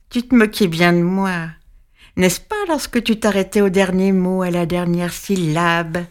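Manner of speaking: lightly voiced witch, sneering; the witch gloating over her prey; mocking witch. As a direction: gloat like a patient old witch. Witch voice held.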